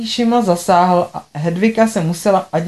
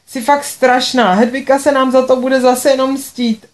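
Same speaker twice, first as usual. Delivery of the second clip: bursting into tears; 5 semitones higher than usual. Acted. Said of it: "a rozbulela se".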